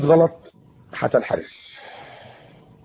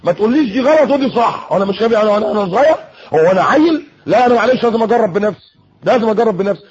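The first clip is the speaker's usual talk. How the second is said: put-on stubborn teen; 4 semitones higher than usual. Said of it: "وبتقول لا سيبوني انا حر".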